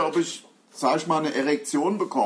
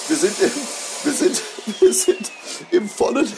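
excited; 6 semitones higher, 5 dB louder than usual. Real, not acted. Excited after the loud scream.

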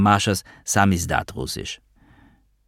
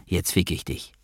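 dark mutter; 6 dB quieter than usual. A narrator's reading. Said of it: "düster murmelte".

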